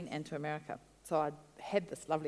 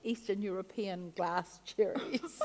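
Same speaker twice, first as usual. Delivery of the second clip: slow words broken up by laughter; drawn-out, giggling description; laughing; 4 semitones higher, 3 dB louder, much slower than usual. Real, not acted. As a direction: laugh your way through it. Laughing while describing the find.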